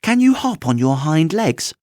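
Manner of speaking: a rabbit poking at a weak spot; prying wild rabbit. Acted. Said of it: "asked the furry rabbit".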